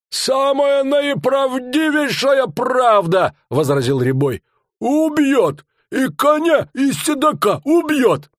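high, loud hawker's voice, drawn out; fairground barker. Acted. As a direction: sell the monster to the crowd. Showman barker voiced in story.

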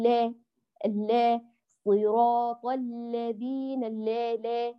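second lam of الذين tilted toward "le"; slow recitation with a half-tilted vowel after the L in الذين; thinned vowel fault. Shown as a demonstration. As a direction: demonstrate لا wrongly fronted to "leh". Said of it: "لا تأتي بها مقللة".

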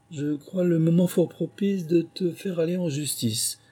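high-pitched dog proposing a lawsuit; scheming dog character. A narrator's reading. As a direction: pitch it well up, as Canichon the accuser. Canichon proposes a lawsuit to mouse.

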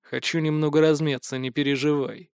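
quiet, forced calm; almost calm tone. Acted. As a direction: keep it steady and low. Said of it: "Удалось сохранить почти спокойный тон".

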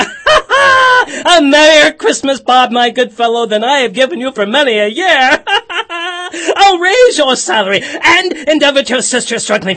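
loud, laughing jubilation; bursting with merry laughter; shouting glad tidings through laughs; laughing joy. Acted.

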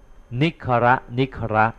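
"นิคระ นิคระ" said very slowly, syllables drawn out; slow foreign warning. Retold or imitated. Elder brother warns younger in Chandala tongue, very slowly. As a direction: draw out "นิคระ นิคระ" like a hushed warning word. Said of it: "ส่งภาษาจันทานตอบไปอย่างนี้ว่า".

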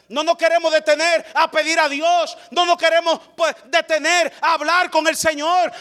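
fervent pulpit preaching; preaching at full force. Acted. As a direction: preach it out, lifted and urgent.

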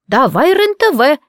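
put-on old woman ordering the channel; commanding old woman. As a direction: draw out the command like a bossy granny. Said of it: "скомандовала баб Мара".

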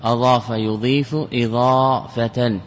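slow, each form set apart; أضاف يضيف إضافة said slowly, word by word; slow spelled-out paradigm. Shown as a demonstration. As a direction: recite the verb forms slowly like a teacher. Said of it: "نقول هذا مصدر".

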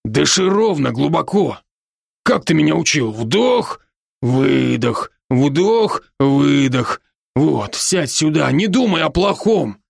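бодрый, чуть выше голос друга-оборотня; успокаивает друга, слегка играя роль; Рон, заботливый друг. Acted. Narrator voices friend Ron. (оборотень Рон уговаривает друга дышать)

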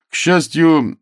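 a bright burst of hope; sudden optimism. A narrator's reading. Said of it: "в голосе его внезапно прозвучала оптимистическая нотка".

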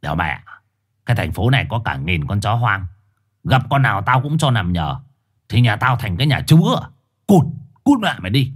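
bullying dog snapping cút; gruff dog. Acted. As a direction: brush him off rudely, then chase him away. Four-eyed dog refuses, swears.

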